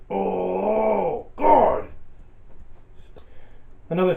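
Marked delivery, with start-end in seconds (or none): 0.1-1.9 exasperated cry. Real, not acted. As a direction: throw up your hands in exasperation. Exasperated outburst at mispronunciations.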